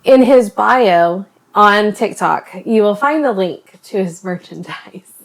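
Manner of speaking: deliberately slow, every word clear; slow it right down and land it; slow and careful. Shown as a demonstration. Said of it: "We're gonna try that again".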